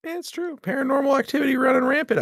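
high, far-off spooky ghost voice; mock spooky voice. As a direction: play the haunted Ohio ghost.

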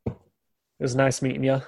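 a hint of a careless boss; gruff boss ordering. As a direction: send the rookie out carelessly.

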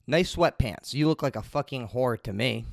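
mild mock yell, punched opening; retold yell. Repeating his insult to the lady, a mild retold yell. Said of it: "yelling at her".

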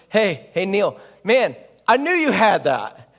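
pumped-up call across the court; hyped teammate. Retold or imitated. Teammate calling to Neil after the shot, pumped. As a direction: hype up the shooter, loud and high. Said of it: "and he goes".

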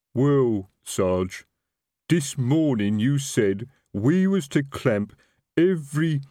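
slow lumbering troll constable; a dim troll explaining himself. A narrator's reading. Troll constable answers sergeant.

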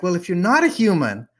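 hammed-up alarm; mock freak-out. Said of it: "Rumi goes into full-on freak-out mode".

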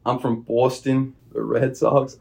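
put-on slow, half-hearted Boston accent; a hesitant attempt at a Boston Red Sox fan. The player from Cape Cod gives a weak attempt at a Boston accent. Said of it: "How about Boston".

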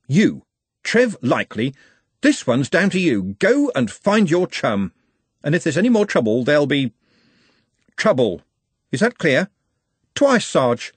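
lightly voiced sergeant laying down the law; gruff sergeant. Sergeant warns Trev to find his chum, lightly barked.

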